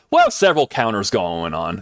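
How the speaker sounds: said too loud into the mic; a loud burst, blowing out eardrums. Real, not acted. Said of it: "That was a little loud".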